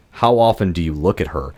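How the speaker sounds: understated creepy line reading; mildly creepy imitation. Podcaster quoting the mannequin's reply, mildly creepy. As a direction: quote it with a touch of creepiness. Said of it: "it was so creepily delivered".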